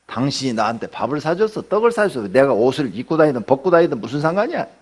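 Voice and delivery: mock-huffy none of your business; defensive retort. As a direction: push back hard at the critic. Acted defensive angry reply.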